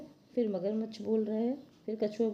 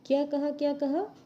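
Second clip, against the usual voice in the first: startled turtle; 5 semitones higher, 3 dB louder than usual. Acted. Turtle asks jackal to repeat.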